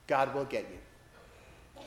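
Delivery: slow down and let the line sink in; slow knowing line. Retold or imitated. Rector advising young Ricardo, slow and quiet. Rector's wise saying, slowed.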